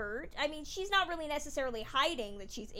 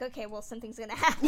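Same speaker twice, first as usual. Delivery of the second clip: knowing; 2 semitones lower, 6 dB louder, faster than usual. Retold or imitated. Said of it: "that you're like".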